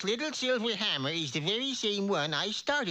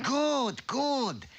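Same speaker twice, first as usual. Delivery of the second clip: gloating troll; 6 semitones higher than usual. Acted. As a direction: relish it like a hungry monster.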